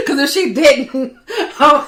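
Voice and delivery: laughing through the words; can't keep a straight face; telling a friend, laughing throughout. Real, not acted.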